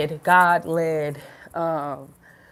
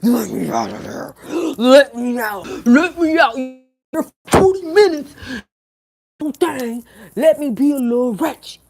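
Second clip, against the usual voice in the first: high pleading voice of her wild side; her ratchet side; 4 semitones higher, 5 dB louder than usual. Pretend. Her wild side begging to be let out, high and loud. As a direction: her inner wild self begging to get out. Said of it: "she just wanna come out".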